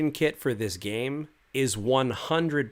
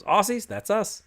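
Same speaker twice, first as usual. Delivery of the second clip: put-on Australian accent; 10 semitones higher, 4 dB louder than usual. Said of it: "He goes".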